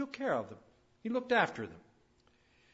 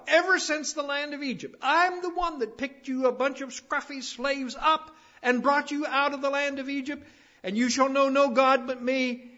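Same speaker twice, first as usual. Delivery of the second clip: high, loud proclamation as God; God speaking; 8 semitones higher, 7 dB louder than usual. Acted. God reminds the slaves he freed from Egypt, loud high proclamation. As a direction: declare it forcefully in the role of God. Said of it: "God said".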